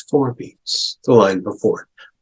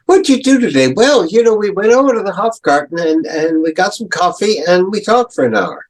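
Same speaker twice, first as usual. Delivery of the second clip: higher, chatty everyday voice; casual chat; 7 semitones higher, faster than usual. Retold or imitated. Teacher voicing a casual chat about the day, chatty. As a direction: chat like someone recounting their day. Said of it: "Sounds like a chat".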